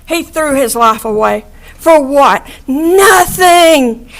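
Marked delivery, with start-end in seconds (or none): 2.7-4.1 crying. Real, not acted. Answers her own question, for what.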